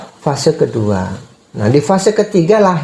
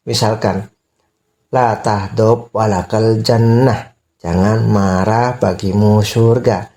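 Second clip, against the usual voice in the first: put-on soothing a baby; 3 semitones lower, slower than usual.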